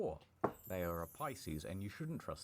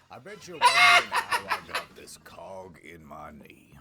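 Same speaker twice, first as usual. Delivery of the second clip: secretive ad mascot whisper; mysterious whisper; 3 semitones lower, 19 dB louder than usual. Acted. Ad character intro.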